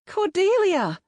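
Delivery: loud high yell. A narrator's reading. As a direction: yell her full name. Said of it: "I yelled again".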